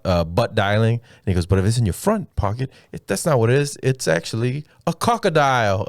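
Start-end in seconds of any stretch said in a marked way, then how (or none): 1.4-5.9 lightly imitated Australian comic, pitched up; mock Australian. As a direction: tell it like a hint-of-Aussie comedian. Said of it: "like he was Australian".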